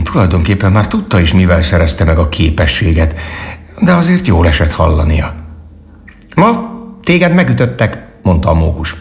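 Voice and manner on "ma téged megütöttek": high-pitched little squirrel character; friendly squirrel. A narrator's reading. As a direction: speak up high as a cheerful squirrel.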